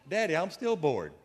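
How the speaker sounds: small son nagging his napping father, lightly voiced whine; bored little boy. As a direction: whine it like a bored kid tugging at dad. Child nags father again.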